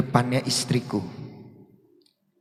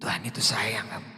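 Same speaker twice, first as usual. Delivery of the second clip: soft self-talk; 2 semitones lower, 8 dB quieter than usual. Shown as a demonstration. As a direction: model the gentle words for Susi. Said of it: "Coba, siapa namanya Susi".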